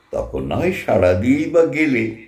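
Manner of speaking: সাড়া and বা leaned on in the recited line; emphasis. Shown as a demonstration. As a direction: stress সাড়া in সাড়া দিয়েই বা গেলে. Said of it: "আর একটা এমফ্যাসিস". (সাড়া শব্দে জোর)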